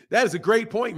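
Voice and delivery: says it through a laugh; amused agreement. Real, not acted. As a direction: chuckle the line. Laughing at a viewer's point.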